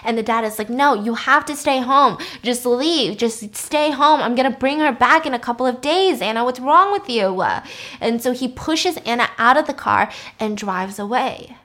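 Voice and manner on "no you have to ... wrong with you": firm, raised-voice order from a dad; mildly acted parental scolding; exasperated dad. Dad ordering daughter to stay home.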